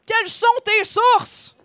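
loud, drawn-out, high incantation; cavernous wizard spell. A narrator's reading. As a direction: boom it out like a wizard casting a spell. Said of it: "dit d'une voix caverneuse la formule magique". (formule magique tonnante de magicien)

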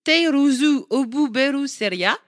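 slow, syllable-by-syllable Japanese katakana reading; hammed-up Japanese pronunciation; mock Japanese accent. Shown as a demonstration. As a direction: spell it out in a playful Japanese accent. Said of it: "avec mon super accent japonais".

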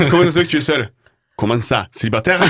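put-on ape the guy's thick accent from the south of France, laughing; mimicking a candidate's broad southern French accent, laughing; mock southern French accent. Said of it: "Le mec a un accent du sud de ouf".

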